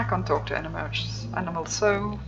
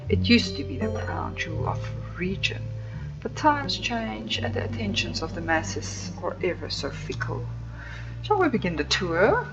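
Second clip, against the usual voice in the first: aloof tour guide. Acted. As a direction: play the snooty estate owner. Streamer voices guide Tabitha.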